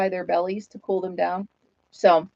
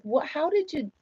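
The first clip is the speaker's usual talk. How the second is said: mock surprise; 7 semitones higher, 6 dB quieter than usual. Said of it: "You're like".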